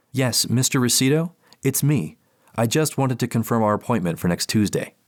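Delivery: polite clinical therapist. Acted. Therapist on the phone.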